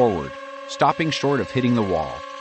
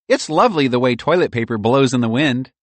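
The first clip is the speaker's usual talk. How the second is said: squirrel voice; 5 semitones higher, 6 dB louder than usual. A narrator's reading. Mary squirrel voice.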